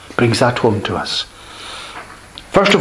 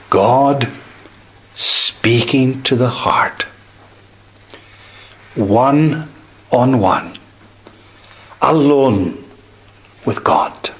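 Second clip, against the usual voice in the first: hushed intimacy; slower than usual. Acted. Preacher on God's intimate voice.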